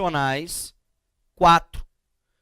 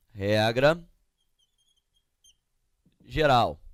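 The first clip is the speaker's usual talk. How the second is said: slow dictation; 5 semitones lower than usual. Shown as a demonstration. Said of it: "uma regra geral".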